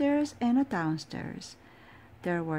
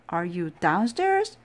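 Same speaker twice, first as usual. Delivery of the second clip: calling out; 4 dB louder than usual. Acted. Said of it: "he cried".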